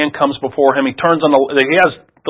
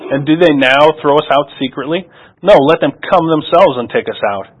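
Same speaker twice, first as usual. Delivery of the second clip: steady, clear public reading of the passage; formal scripture reading voice. Acted. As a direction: read the Bible text aloud to the congregation. Reads scripture aloud.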